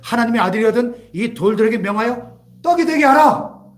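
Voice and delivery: lightly acted devil, forceful on the final words; tempting devil. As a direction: build to the devil's order. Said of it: "마귀가 나타나서 뭐라 그래요".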